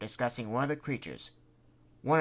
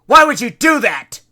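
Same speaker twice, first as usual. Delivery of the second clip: higher, much louder outraged demand; 12 semitones higher, 20 dB louder than usual. Acted. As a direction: call her out for the attack. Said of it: "Bugsy demanded".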